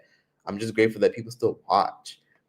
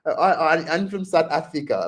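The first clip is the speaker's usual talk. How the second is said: put-on pitched up with an Indian accent; imitated Indian accent; 6 semitones higher than usual. Answering a vendor, imitated Indian accent. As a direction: pretend to be South African in Tyler's Indian accent. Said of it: "that Indian accent".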